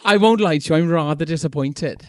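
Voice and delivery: lightly put-on Welsh lilt; Welsh accent impression. Shown as a demonstration. Guest demonstrating his Welsh impression to a Welsh woman, posh Welsh accent. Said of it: "I can do an impression of".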